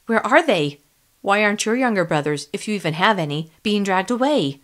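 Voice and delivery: upset accusation; angry and upset. Acted. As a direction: hurl the questions angrily. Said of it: "angry and upset".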